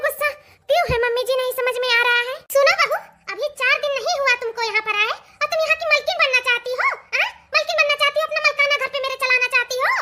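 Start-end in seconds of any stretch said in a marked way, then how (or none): 2.5-9.9 angry scolding. Acted. सास बहू को डाँटती है.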